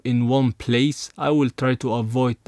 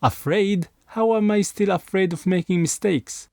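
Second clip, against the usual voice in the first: higher, disbelieving echo of afraid; incredulous; 5 semitones higher than usual. Real, not acted. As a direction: scoff at the word afraid?. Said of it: "Which is, pff".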